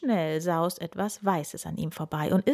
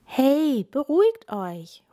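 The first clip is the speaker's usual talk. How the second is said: higher, loud call; 7 semitones higher, 5 dB louder, slower than usual. A narrator's reading. Lenny calling over the panicking animals, loud. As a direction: cut in to calm them. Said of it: "ruft Lenny dazwischen".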